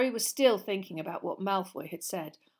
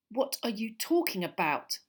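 angry demand; 3 semitones higher, 3 dB louder than usual. Acted. Harry demands Malfoy explain himself, angrily. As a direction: demand an answer with some heat. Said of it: "said Harry angrily".

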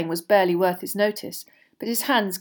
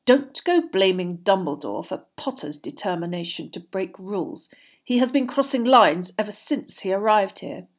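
lightly voiced, disapproving professor; understated contempt; malicious Snape figure. Snape continues in character voice.

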